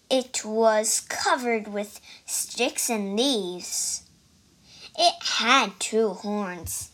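reading a picture book aloud, line by line; story narration. A narrator's reading. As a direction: tell the story to listeners in a lively way. Child reads story aloud.

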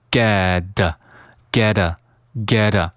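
"get" with the t softened to a d sound; "get" said like the start of "getta", flapped t; voiced T. Shown as a demonstration. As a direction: voice the end of "get" as geh-duh. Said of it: "进行浊化".

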